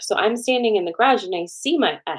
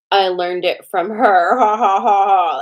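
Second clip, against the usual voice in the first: imitating a creepy man, loud slow line into laughter; loud, hammed-up creepy cackle on the end; weird creepy laugh; 7 dB louder, slower than usual. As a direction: mimic his creepy gloating, breaking into a loud ha-ha. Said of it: "laughing in this weird, creepy way".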